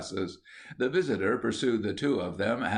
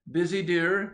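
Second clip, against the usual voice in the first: a higher, lightly voiced society lady; fussy lady voice; 8 semitones higher than usual. A narrator's reading. Visiting lady greets the painter, high and prim.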